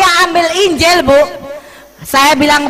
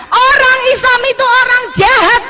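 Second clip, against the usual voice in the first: high, loud daughter's accusation; the daughter blurts it out; child's voice; 11 semitones higher, 4 dB louder than usual. Retold or imitated. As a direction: daughter telling her mother, shrill and upset.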